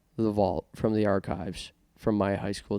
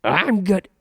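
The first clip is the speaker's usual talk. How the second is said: witch voice attempt; 9 semitones higher, 6 dB louder than usual. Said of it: "perform the Wicked Witch of the West voice".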